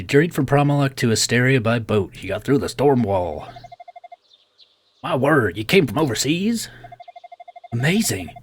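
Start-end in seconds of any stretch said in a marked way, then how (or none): 5.0-8.3 lightly voiced Southern doctor, impressed; amazed Southern clinic owner. Clinic owner marvels at overseas traveler, mildly amazed Southern accent.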